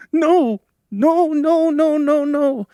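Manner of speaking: very high, loud wailed cries; panicked refusal. A narrator's reading. Girl refusing to light the fire, wailing loudly. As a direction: repeat it in rising desperation, crying out.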